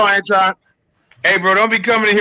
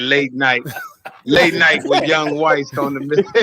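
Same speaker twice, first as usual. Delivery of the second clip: sexy late-night voice; 2 semitones lower, slower than usual. Retold or imitated. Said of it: "Don't come here with that voice".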